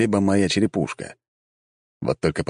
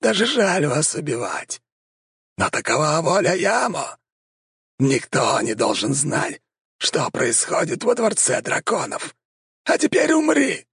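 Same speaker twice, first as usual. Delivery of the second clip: vampire shout; 10 semitones higher than usual. A narrator's reading. Vampire attacks the hero.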